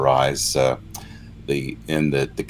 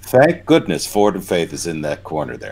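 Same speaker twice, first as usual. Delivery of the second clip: dry mock praise; sarcastic. Real, not acted. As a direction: praise it, meaning the opposite. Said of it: "I'm being sarcastic".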